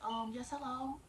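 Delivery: lightly polite customer service tone, lifting at the end. Shown as a demonstration. Applicant greeting the manager, light customer service voice. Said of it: "you put your customer service voice on".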